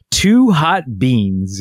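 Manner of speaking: slow, drawn-out "Two hot beans"; toddler phrase. Retold or imitated. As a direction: say it like a small child. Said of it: "He said".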